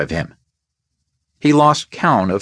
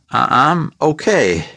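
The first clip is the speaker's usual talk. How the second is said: breathless; 5 semitones higher than usual. Acted.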